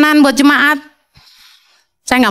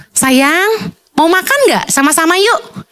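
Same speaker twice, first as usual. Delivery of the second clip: gentle invitation; 4 semitones higher, slower than usual. Shown as a demonstration. Husband lovingly inviting his wife to eat, gentle. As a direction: invite her sweetly to eat together. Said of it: "Coba mulai ajak istrimu".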